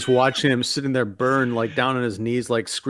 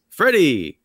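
called-out movie line, raised pitch and voice; calling out; 4 semitones higher than usual. Retold or imitated. Movie hitman calls out to his victim, calling out. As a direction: call out the name, then the line. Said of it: "his line he calls out".

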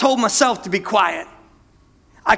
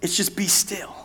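hushed, breathy hush of a command; whispered; 7 dB quieter than usual. Acted. Preacher hushing the church, whispered. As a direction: breathe it out softly like a secret.

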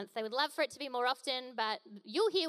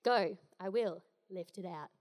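terse; 5 semitones lower than usual. Shown as a demonstration. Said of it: "he's not got a lot to say".

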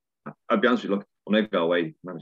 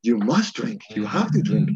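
mock foreign insistence; 4 semitones higher, 5 dB louder than usual. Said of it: "And they're like".

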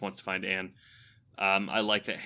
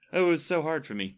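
mock self-pity, pitched up; sarcastic; 7 semitones higher, 3 dB louder, faster than usual. Dutiful son joking about watching five movies, sarcastic. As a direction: play up the fake hardship in a higher voice. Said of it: "trying to say sarcastically".

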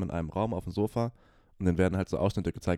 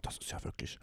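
hushed parent commentary; 6 dB quieter than usual. Retold or imitated. Parents whispering on sofa.

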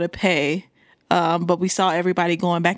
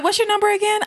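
sweet clerk voice; 11 semitones higher, faster than usual. Retold or imitated. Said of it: "She was like".

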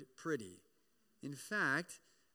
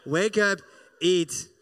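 loud, blunt wake-up call; God ordering Elijah up to eat; mock command; 13 dB louder than usual. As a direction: boom it like a fed-up parent. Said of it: "he's like".

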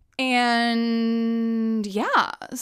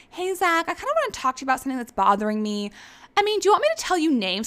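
high, fast, sugary mock girl voice; mocking Brianna; 6 semitones higher, much faster than usual. Host mimics Brianna pulling Zach aside, high mock. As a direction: rattle it off, fake sweet. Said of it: "Brianna's like".

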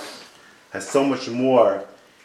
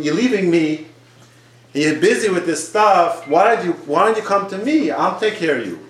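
mildly pleading, pitched higher; acted pleading; 4 semitones higher than usual. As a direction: appeal to someone who is leaving you. God voiced pleading with people.

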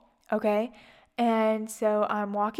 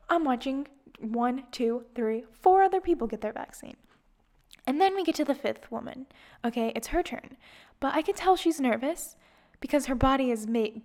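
usual speaking voice

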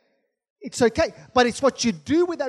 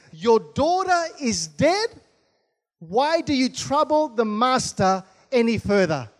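slow, deliberate message from scripture; scripture reading. Acted. Preacher reads out the messengers' news, slow scripture reading. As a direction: draw out the opening, then settle to an even close.

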